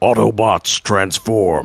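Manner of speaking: commanding robot leader voice. Answering a request to say the line, the speaker does an Optimus Prime voice. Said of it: "as close to Optimus Prime's voice as I can".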